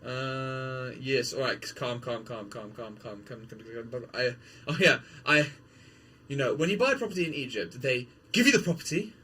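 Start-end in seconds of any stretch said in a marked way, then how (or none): 1.8-4.1 fading calm calm calm, much softer; self-soothing chant dying away; softening mantra. Real, not acted. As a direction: talk yourself down, fading out. Calming himself, repeating.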